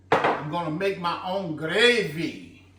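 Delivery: Southern accent leaned on a little. Real, not acted. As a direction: say it in a light Southern US accent, proud of home cooking. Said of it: "Y'all hear that accent?".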